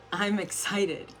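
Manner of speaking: lifted, smiling declaration; excited. Shown as a demonstration. Coach showing the reframe out loud, excited. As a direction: say it with a smile in the voice. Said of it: "You can't say excited without smiling".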